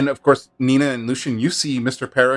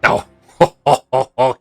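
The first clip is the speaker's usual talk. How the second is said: jolly laugh; 3 semitones higher, 7 dB louder than usual. Acted. Flattered captain chuckles.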